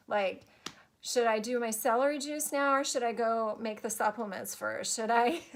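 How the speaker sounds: chatty, half-joking plea for guidance; talking to spirit team. Retold or imitated. Tired mom asking her spirit team what to do, pleading and laughing. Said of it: "goes something like this".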